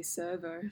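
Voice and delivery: "servo" in her own Australian accent, SER-voh; Australian slang. Shown as a demonstration. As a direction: toss off "servo" like an Aussie. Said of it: "we say".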